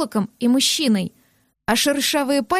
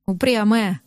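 amused chuckle; 3 semitones lower than usual. Acted. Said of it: "со смешком произнёс он".

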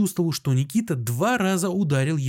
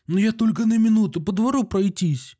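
higher, startled protest; taken aback; 7 semitones higher than usual. A narrator's reading. Doctor is startled when the guard blocks him, taken aback. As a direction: caught off guard at the door. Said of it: "оторопел Андрей Ефимович".

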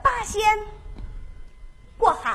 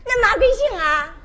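Henan dialect; 4 semitones higher, 3 dB louder than usual. Acted. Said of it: "亲切地问候".

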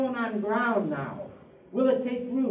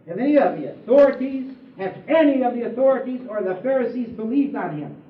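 scornful Pharisees; 5 dB louder than usual. Acted. Pharisees scolding the police.

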